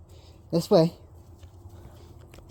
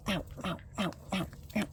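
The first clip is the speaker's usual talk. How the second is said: soft ow ow; 4 semitones higher, 11 dB quieter than usual. Real, not acted. Puppy biting her foot.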